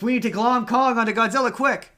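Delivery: loud, high-pitched panicked studio exec; mock panic. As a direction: blurt it out as if in a hammed-up panic. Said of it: "So they panicked".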